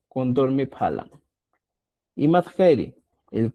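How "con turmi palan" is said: Con turmi palan, said as one smooth model phrase; quechua sentence. Shown as a demonstration. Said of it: "puedes decir". (pronunciación modelo de Con turmi palan)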